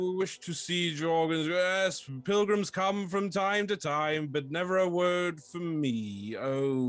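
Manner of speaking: put-on wistful old stronghold feeling left out; lonely living fort. Game master plays the fort.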